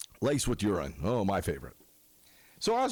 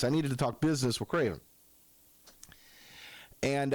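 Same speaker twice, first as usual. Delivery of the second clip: ordinary talk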